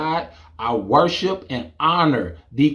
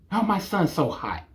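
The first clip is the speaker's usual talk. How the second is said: swooning mom; 3 semitones higher, 6 dB quieter than usual. Retold or imitated. Mom voiced.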